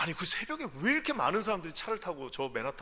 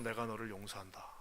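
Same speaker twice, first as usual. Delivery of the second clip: loving voice; 7 semitones lower, 10 dB quieter than usual. Acted. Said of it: "그 사랑의 음성".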